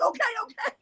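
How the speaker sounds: high-pitched, flustered retold reply; flustered compliance. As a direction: imitate yourself hastily giving in. Hurried answer to friend's yelled order.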